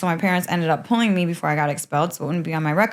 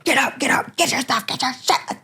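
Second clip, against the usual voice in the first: retold yelling; 7 semitones higher than usual. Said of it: "they're yelling at me and screaming".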